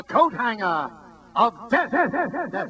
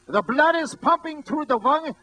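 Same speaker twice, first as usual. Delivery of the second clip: barker voice; 6 semitones higher than usual. Retold or imitated. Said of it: "This is the way he sounded".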